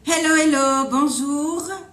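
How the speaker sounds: bright eager greeting. Real, not acted. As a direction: greet the audience with a burst of energy. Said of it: "over to you to say hello".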